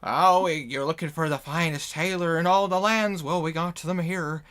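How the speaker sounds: loud, eager street vendor pitch; merchant calling out. Acted. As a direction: call out to passers-by like a seller.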